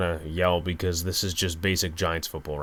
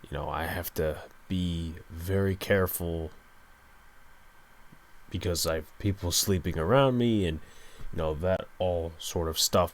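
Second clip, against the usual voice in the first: softly, keeping the volume down; speaking low; 6 dB quieter than usual. Real, not acted. Podcaster recording late while people sleep nearby, speaking low. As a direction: talk low so nobody wakes. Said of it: "I'm speaking a little low".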